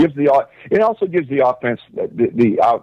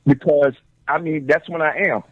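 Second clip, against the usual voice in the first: talking while chewing popcorn; words around a mouthful; munching popcorn. Real, not acted. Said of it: "I'm eating popcorn right now".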